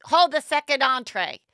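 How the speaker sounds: hammed-up panic shushing the group; Teddy frantically warning the group; frantic mock alarm. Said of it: "And then Teddy goes".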